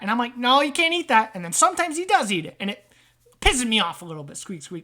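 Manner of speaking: exasperated wiseguy rat; annoyed rat trader. Acted. Rat blaming visitor for the guy in his head, annoyed. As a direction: rattle off a rat's grievance. Game master voices rat character.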